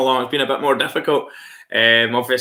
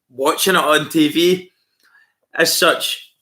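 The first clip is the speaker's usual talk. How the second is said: whisper; 2 semitones higher, slower than usual. Real, not acted. Aside about disliking cricket on TV.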